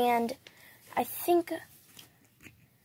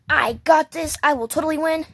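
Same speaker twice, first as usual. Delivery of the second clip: loud confident doll boast; 4 semitones higher, 4 dB louder than usual. Pretend. Doll boasting loudly before the match.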